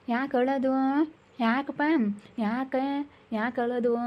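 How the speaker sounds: put-on tender, coaxing calls to a child; soothing. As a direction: coax a crying little one to settle.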